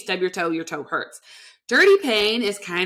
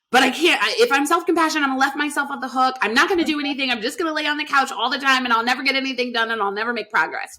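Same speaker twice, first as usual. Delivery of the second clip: fast, slightly higher anxious protest; worried client voice; 3 semitones higher, much faster than usual. Retold or imitated. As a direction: rattle off the client's excuses, fast and a little higher. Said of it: "I hear this all the time".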